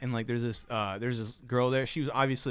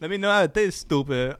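brash catchphrase version; 4 dB louder than usual. Acted. Barista handing over the cup, brash and cheeky. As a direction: call it out with comic cheek. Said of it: "She goes".

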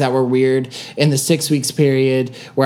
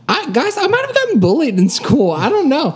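laughing; 10 semitones higher than usual. Real, not acted. Laughing confession.

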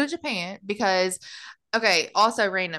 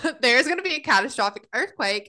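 laughing refusal; 5 semitones higher than usual. Retold or imitated. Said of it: "I was like".

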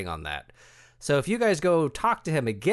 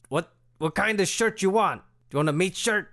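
squeaky clicking bat; 6 semitones higher than usual. Acted. GM continues meat bat voice.

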